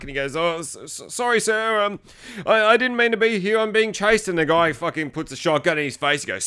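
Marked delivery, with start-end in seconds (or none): 0.3-4.3 mock frightened stammer. Retold frightened stammering apology at gunpoint.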